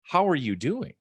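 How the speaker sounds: earnest, caring ask with a lift on how; really mean the question; genuinely asking how she is; sincere question. Retold or imitated. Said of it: "she could tell I meant".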